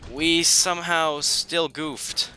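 high, loud incredulous how; disbelief. Real, not acted. Gamer asking the game how, high and disbelieving. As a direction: demand an answer from the game. Disbelief after losing again.

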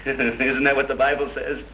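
slow, laughing sneer; mocking laugh. Killer laughing at the guests about the Bible, slow. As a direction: laugh through the question.

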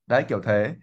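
ordinary delivery

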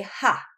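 "ha" opened with an H sound; Spanish J as H. Shown as a demonstration. Teacher showing how to read J, H sound in "ha". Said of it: "when you see a J, you say".

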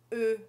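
the vowel Ö, rounded lips between E and O; French eu vowel. Shown as a demonstration. Teacher showing Brazilians the French Ö sound. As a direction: say Ö with rounded lips, neither E nor O. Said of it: "fiz três sons diferentes".

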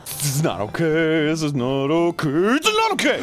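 mounting dismay. Real, not acted. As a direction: repeat it with growing alarm. Things going wrong in game.

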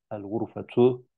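vasiatun stretched out at half speed; slow demo read. Shown as a demonstration. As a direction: spell out "vasiatun" slowly, syllable by syllable. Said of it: "Gurfe, oda". ("vasiatun" kelimesini hece hece, yavaşça söyle)

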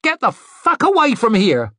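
high, angry snarled warning. A narrator's reading. Maid to a beggar at the carriage window, snarling. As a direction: snarl it to drive someone off. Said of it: "snapped the window down and snarled".

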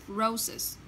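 "Roses" quietly, ending in a distinct -iz syllable; roses with final iz. Shown as a demonstration. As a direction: model "Roses" slowly, two syllables, -iz at the end. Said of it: "chúng ta sẽ đọc là roses".

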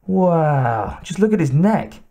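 put-on high excited boy's voice; young boy voice. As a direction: voice a wide-eyed kid. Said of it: "the boy said".

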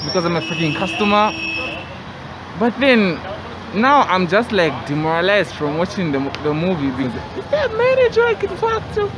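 muffled behind cloth mask; speaking into fabric covering; through a face mask. Real, not acted. Seen 4: Cloth mask covers mouth and nose in every frame throughout.

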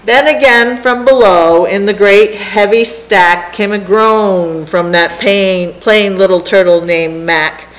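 lively, rhythmic rhyming read-aloud; story narration. A narrator's reading. Reader telling a turtle tale to listeners, rhythmic narration. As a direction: read it to children in a bouncing verse rhythm.

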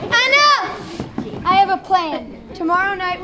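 loud commanding bark; angry shout. Acted. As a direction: shout them down to silence. Captain silences the arguing settlers.

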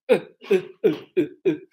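"uh" with mouth in neutral position; neutral schwa. Shown as a demonstration. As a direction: repeat "uh" with no articulation at all. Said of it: "e aí você emite som".

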